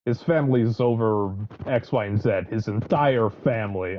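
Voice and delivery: put-on evil mobster's wife with a Russian accent. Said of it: "I'm getting a Russian accent".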